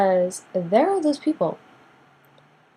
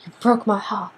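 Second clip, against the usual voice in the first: melodramatic; 2 semitones higher than usual. Acted. Turning down a fake friend, mock melodramatic. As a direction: overact the wounded apology. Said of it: "you can be all melodramatic about it".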